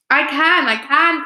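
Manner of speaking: high eager cry. A narrator's reading. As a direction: cry out, straining. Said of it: "cried Missus Twit".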